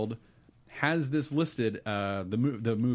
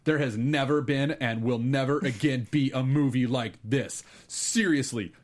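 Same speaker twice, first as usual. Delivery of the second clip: hyped-up announcer, slowed punchlines; monster truck ad; 4 semitones higher, 3 dB louder than usual. Acted. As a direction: pitch it like a monster truck rally. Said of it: "announcing a monster truck rally".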